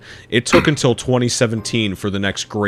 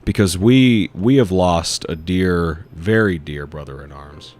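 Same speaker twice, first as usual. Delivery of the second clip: mock solemn eulogy; 4 semitones lower than usual. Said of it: "hold a moment of silence".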